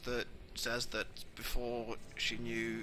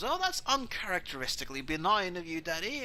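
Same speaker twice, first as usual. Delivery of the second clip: higher, lightly voiced daughter; impressed remark to Daddy, pitched up; a hint of arch daughter; 5 semitones higher, 4 dB louder than usual. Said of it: "And Cinna goes".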